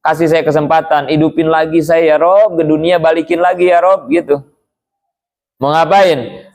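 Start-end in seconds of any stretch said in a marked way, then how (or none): 0.0-4.1 a touch of a desperate plea, slightly raised; dying man pleading. Acted. Dying man begs God not to take him yet, mild plea. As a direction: beg God for more time, mildly urgent. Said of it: "dia teriak-teriak".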